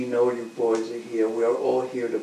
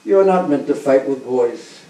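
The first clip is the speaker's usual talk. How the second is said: loud, pushing challenge; booming wrestler; 11 dB louder than usual. Acted. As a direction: bellow the challenge at the boys. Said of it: "And Chanora said".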